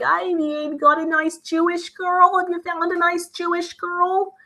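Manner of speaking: put-on high, drawn-out Jewish mother accent; stereotypical Jewish mom. Jewish mom asks her child about finding a girl, hammed-up Jewish accent. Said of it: "the stereotype of the Jewish mom".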